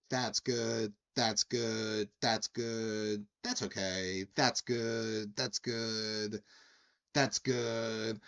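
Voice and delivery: "That's good" repeated evenly with a pause after each; imitated checklist verdicts. Patron rates "That's good" per drink ingredient, evenly repeated.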